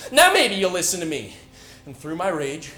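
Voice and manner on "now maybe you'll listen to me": retold scream. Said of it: "she screamed".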